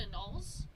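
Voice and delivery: annals as uh-NAWLS, rising question; unsure pronunciation. Real, not acted. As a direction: try annals with stress on the second syllable. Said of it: "How do you say that word?".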